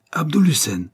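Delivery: high-pitched commanding shout; roared call. A narrator's reading. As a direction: call out the name in a mild roar. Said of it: "rugit-il".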